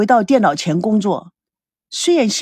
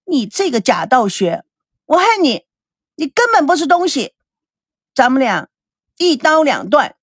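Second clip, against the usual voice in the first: angry accusation; 2 semitones higher than usual. Acted. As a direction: let the hurt pour out as blame. Girlfriend accuses him, ends relationship.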